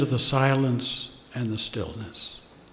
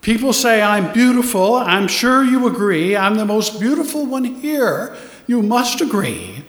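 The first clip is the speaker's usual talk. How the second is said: vain woman's inner message; 4 semitones higher than usual. Retold or imitated. Speaker voices a vain guest's unspoken demand, lightly hammed. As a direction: lightly voice a woman sure of her beauty. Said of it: "One attractive woman was in effect saying".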